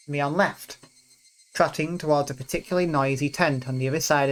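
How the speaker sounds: reading the story's narration and character lines aloud; visual novel reading. Acted. Player reading the game's festival scene aloud, lightly voiced. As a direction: read the scene out for the viewers, voicing each character lightly.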